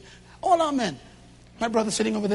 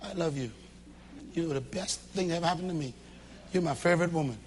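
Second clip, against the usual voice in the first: tender love words; 6 semitones lower, 8 dB quieter, faster than usual. Shown as a demonstration. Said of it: "Tell your wife".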